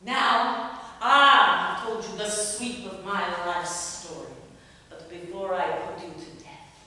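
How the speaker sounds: bitter woman confronting her rival's face; seething accusation, swelling to rage; vengeful dramatic monologue. Acted. Jilted woman confronting her rival, vengeful.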